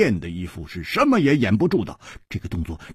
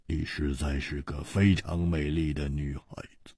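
soft, low, tender praise; hushed, intimate compliment; tender admiration; 5 semitones lower, 6 dB quieter than usual. Acted. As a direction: tell her quietly, low in the voice. Tender compliment while facing death.

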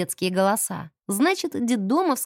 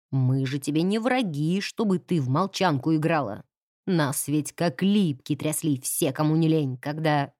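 low, reproachful man's voice; stern caretaker; 6 semitones lower than usual. Acted. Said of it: "завхоз".

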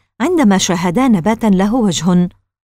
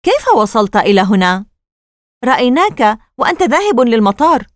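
mildly challenging, doubtful voice; suspicious questioning; 3 semitones higher, 4 dB louder than usual. Acted. Casey doubting his bound father's story, suspicious questioning. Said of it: "وهو ينظر إليه بشك".

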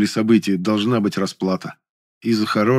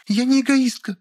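high, indignant woman's voice; indignant Lilya. A narrator's reading. Lilya protesting to the narrator, high and indignant. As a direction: bristle at it, pitched high. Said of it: "возмутилась она".

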